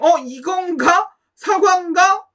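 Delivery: slow, rising puzzled question; puzzled musing. Retold or imitated. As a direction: wonder aloud, unsure. Mimics own confused guessing.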